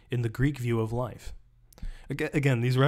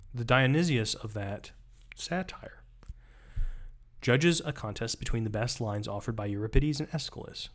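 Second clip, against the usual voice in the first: reading aloud. Acted. Reading the book passage aloud.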